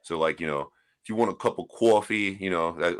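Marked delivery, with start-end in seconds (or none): 1.0-2.4 light imitation of a New York accent; a quick sample of New York talk. Shown as a demonstration. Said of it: "be, like, your New York accent".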